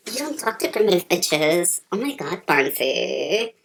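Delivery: deep interviewer voice. Acted. Low interviewer voice continues.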